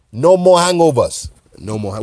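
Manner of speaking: a hint of botched South African accent; accidental South African accent. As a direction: fake British accent slipping into South African. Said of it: "Now my accent just switched into, like, some South African joint".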